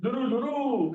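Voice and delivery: "लुरु, लुरु" with rolling, lengthened final u; teacher sounding out "लुरु" for repetition; pronunciation demo. Shown as a demonstration. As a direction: model "लुरु" clearly, twice. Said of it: "हिचं pronunciation कसं आहे".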